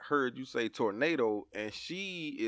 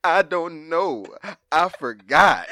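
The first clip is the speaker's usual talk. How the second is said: put-on slow, louder little kid answer; louder child-like voice; imitating sheepish child; 7 dB louder, slower than usual. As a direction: shrug it off like a kid. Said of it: "daughter's reply".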